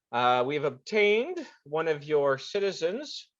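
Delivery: high, slow, stiff apology; bow and scrape politely; formal diplomat voice. Acted. Ilonis apologizing to embassy officers in a stiff formal voice.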